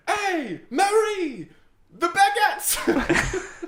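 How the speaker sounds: high, stretched French chef call; a French chef hollering across the food court; French chef accent. Acted. Chef calls to Marie in hammed-up French accent.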